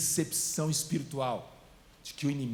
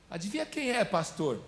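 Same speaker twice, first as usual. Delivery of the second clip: high, sweet flight attendant voice; 5 semitones higher than usual. Retold or imitated. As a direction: put on a cabin-crew sweetness, lightly. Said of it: "falou com mó voz de comissária de bordo". (voz de comissária de bordo)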